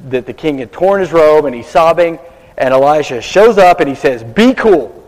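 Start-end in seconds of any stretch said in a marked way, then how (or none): 4.2-5.0 casual "be cool". Retold or imitated. Prophet calms the frantic king, breezy "Be cool.". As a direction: say "Be cool." like a laid-back buddy. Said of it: "he doesn't really say".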